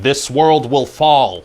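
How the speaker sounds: very slow, put-on villain growl; mock villain voice. Writer quoting Steppenwolf's generic line, slow put-on villain voice. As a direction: intone it like a generic doom-laden bad guy. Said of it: "he's like".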